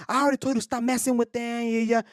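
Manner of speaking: mild mock yell of a scolding woman; retold yelling. Woman scolding someone else's kid, mildly yelled. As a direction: imitate her telling off the kid. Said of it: "like, gritando, gritándole".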